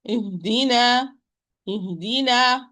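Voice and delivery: "ihdina" with too much air leaking out on the h; over-aspirated h in "ihdina"; exaggerated breathy ha. Shown as a demonstration. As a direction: let the h in "ihdina" gush breath until it nearly vanishes. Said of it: "it will be inaudible".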